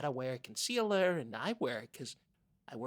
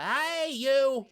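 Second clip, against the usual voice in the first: higher, louder shout to get her attention; calling out; 11 semitones higher, 13 dB louder than usual. Real, not acted. Host hails a woman walking straight past. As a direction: call out across the street.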